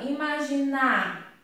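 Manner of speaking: IMAGINAR said clearly with weight on the final "nar"; word read out for its ending. Shown as a demonstration. Teacher reading a word to find its rhyme, stressed ending. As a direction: read out "imaginar" so its last syllable stands out. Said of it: "Eu vou ler a palavra".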